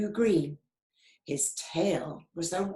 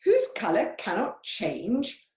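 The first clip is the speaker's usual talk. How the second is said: mock parrot squawk, higher and louder; 8 semitones higher, 5 dB louder than usual. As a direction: squawk it in disbelief. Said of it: "squawked the parrot loudly".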